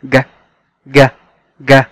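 ج sounded alone like Arabic jeem; ج said as a hard g sound; letter sound demo. Shown as a demonstration. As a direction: isolate the sound ج. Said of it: "بيتنطق كأنه حرف جيم".

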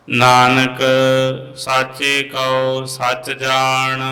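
slow, measured Gurbani chant; scripture recitation. Acted. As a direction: draw out the line endings, pause between phrases.

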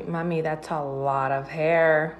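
slow, amused warning, half-laughing; lightly voiced giggling daughter. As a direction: imitate a daughter teasing through a laugh. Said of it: "como riéndose".

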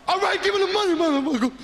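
high, loud robber's demand; tough stickup act. Acted. Comic robbing club owners for his pay, loud bluster. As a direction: burst in shouting a threat. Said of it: "Doing my best black shit".

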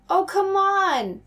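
loud, slow, drawn-out groan of frustration; fed up, let it rip; exasperated outburst. Acted. Max's outburst at board.

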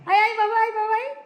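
high, loud call to come. Real, not acted. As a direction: coax him over with a loud call. Calling the child over.

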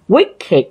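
Wicked said as two syllables, WICK-id; ịch ending. Shown as a demonstration. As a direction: sound the "ịch" at the end of Wicked. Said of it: "âm ịch".

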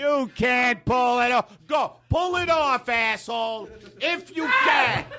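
slow, high, shouted taunt; mock taunting dare. The speaker daring the host to pull it off, slow shouted taunt.

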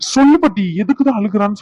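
bursts out in frustration, demanding she tell his wife; angry outburst. Acted. Husband shouts at grandma to question his crying wife, angry.

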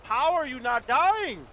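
can't believe it, drawn out; incredulous. Real, not acted. Incredulous at teammate.

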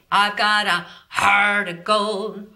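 slow line with a gentle throaty growl; light growl. Shown as a demonstration. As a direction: growl it slowly from the back of the throat. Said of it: "great setup for a growl and scream".

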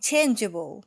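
"changeable" with a loud CHAIN, falling juh-bul; first-syllable stress. Shown as a demonstration. Teacher repeats it for learners, first-syllable stress. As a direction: lean hard on the start of "changeable". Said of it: "เน้นที่พยางค์ที่หนึ่ง".

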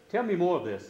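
stern. A narrator's reading. Knight presses the maiden for the story, sternly. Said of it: "said Saint George sternly".

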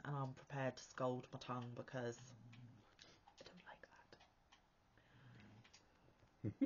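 talking while sipping hot tea; words around a hot sip. Real, not acted. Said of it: "Sorry for the slurping, but it's really hot".

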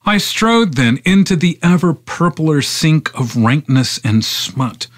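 measured, incantatory poem recitation; poetry reading. Acted. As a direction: recite the poem in long, driving phrases.

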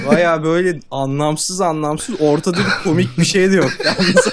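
laughing. Real, not acted. Laughing fit continues.

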